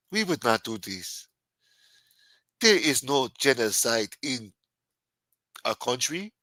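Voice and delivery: imitated South African president's denial; mock South African politician, firmly denying; South African accent. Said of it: "And the president w-, of South Africa was denying it".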